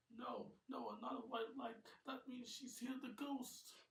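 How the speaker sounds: high, alarmed warning; panicked uncle spotting the ghost; panicked cry. Acted. James panics at white light.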